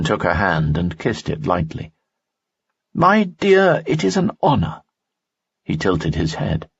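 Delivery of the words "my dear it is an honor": higher, courtly nobleman voice; a charming noble, pitched up; Lanson's voice. Acted. Lanson speaks in story.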